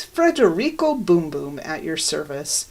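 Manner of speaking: lightly imitated Italian accent; a hint of mock Italian. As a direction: put on a mild, suave Italian accent. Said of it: "In an Italian accent".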